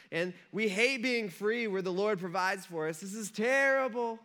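hammed-up moan rising at the end; complaining, whiny. Israelites hating their freedom, mock whining. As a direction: grumble whinily, stretching the last word. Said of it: "Just complaining and whining".

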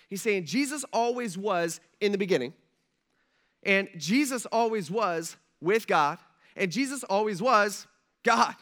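each line pushed a bit harder, stressing Jesus; building emphasis. Acted. Preacher hammering home that Jesus always was God. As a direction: build the repetition to a climax.

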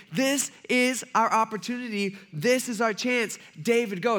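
high, eager urging; acted pumped-up insistence; super excited. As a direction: push him to seize the chance. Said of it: "They're all super excited".

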